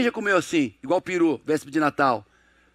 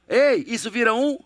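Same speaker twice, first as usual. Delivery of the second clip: raised voice to pull the crowd in; calling out louder; 3 semitones higher than usual. Real, not acted. Preacher calling the congregation for an answer, louder. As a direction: push it out louder to get an answer. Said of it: "que eu tô gritando".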